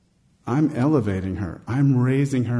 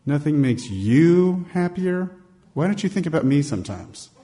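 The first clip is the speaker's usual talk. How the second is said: mock accusing wife; 5 semitones higher than usual. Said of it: "is she gonna look at me and say".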